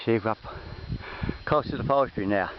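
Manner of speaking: breathless from the climb; puffing after walking uphill; out of breath. Real, not acted. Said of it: "I'm a bit out of breath".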